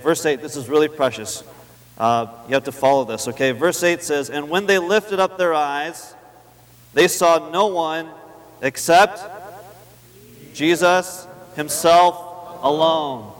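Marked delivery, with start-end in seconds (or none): 4.3-13.3 very slow, stretched Jesus himself alone; emphatic. Shown as a demonstration. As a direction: drag out the final words for weight. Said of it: "That, that's very emphatic".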